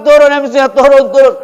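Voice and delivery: loud, high mob yelling; crowd shout. Acted. Villagers chase the boy MC off stage, shouting. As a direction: holler to get the MC off. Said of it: "Mereka teriak".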